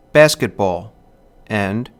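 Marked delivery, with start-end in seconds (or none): 0.1-0.9 "basketball" stressed on the first syllable, two light after; dactylic stress. Shown as a demonstration. Lecturer giving an example of a dactyl, "basketball" stressed on "bas". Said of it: "stressed syllable followed by two unstressed".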